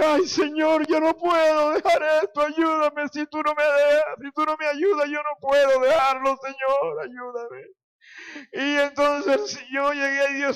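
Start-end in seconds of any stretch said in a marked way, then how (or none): 0.0-7.6 higher, imploring cry to God; pleading in a raised pitch; retold desperate plea. Re-enacts desperate prayer for help.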